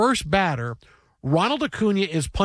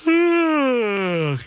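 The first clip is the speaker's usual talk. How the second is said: huge, loud, lazy yawn; loud demonstrative yawn; 7 semitones higher, 3 dB louder than usual. Shown as a demonstration. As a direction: act out a big, loud yawn right at her. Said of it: "stood over her and just went".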